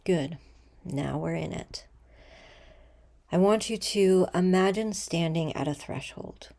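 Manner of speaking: soft, unhurried meditation voice with long pauses; guided meditation. Acted. Leader guiding listeners to breathe and imagine a threshold, calm meditation voice. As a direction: ease them gently into stillness, letting sentence ends fall away.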